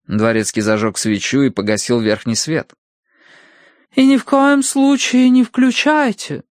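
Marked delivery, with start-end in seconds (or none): 3.9-6.4 high, loud, slow warning; строгий наказ. A narrator's reading. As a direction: lay down a strict rule as a medium. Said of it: "наказала мадам". (строго наказывая, высоко и протяжно)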